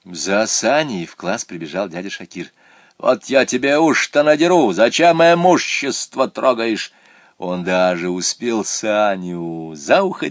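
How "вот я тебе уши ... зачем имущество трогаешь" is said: angry threat. Acted. Сторож ругает Саню.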